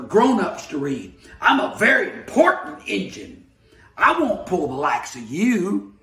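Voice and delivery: a touch of a proud, bellowing engine; bellowing freight engine. Acted. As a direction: boom it out like a self-important engine.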